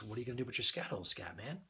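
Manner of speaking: quick, dead-serious delivery; imitating a deadpan joker. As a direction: ask it with a straight, serious tone. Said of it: "dead serious".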